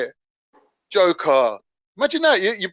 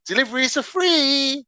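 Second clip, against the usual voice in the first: higher, drawn-out announcement; pushy app notification; 4 semitones higher, slower than usual. Acted. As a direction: chime in like an app alert. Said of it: "I'm looking at Uber Eats going".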